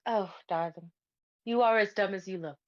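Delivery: mock-sweet sarcastic put-down. Bo looks at companion and teases, sarcastic. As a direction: say it as an obvious, teasing insult. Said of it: "pretty clearly being sarcastic".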